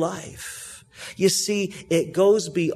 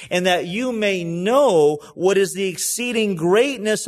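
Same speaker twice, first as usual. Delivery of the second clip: "know" lifted and pressed in the phrase; stress on know; 4 dB louder than usual. Shown as a demonstration. Pastor reading Paul's prayer, stress on "know". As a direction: lean into "know" while reading on. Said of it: "I'm gonna emphasize two words here".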